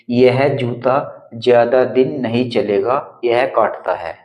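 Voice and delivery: slow, deliberate reading of the example. Shown as a demonstration. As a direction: read each word slowly and clearly. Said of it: "अब देखिए". (धीमे, ठहरकर उदाहरण पढ़ना)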